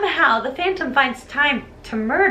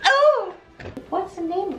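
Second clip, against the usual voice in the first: high, airy exclamation; mock surprise; 6 semitones higher, slower than usual. Meg finding the scene, high mock-surprised exclamation. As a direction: let out a high little oh. Meg's discovery, acted.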